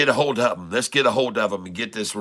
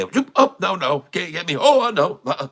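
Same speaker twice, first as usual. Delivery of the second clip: playful cat voice; 8 semitones higher, faster than usual. Pretend. Acting a cat dodging a snake.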